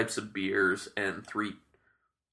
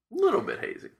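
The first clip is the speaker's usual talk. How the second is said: "Little bit hazy" squeaked much higher, playful; high squeaky echo. Pretend. Repeats tasting note in new voice.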